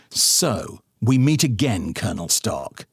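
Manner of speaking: mock movie-hero drama; film villain line. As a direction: say it like in the films. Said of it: "like they say it in films".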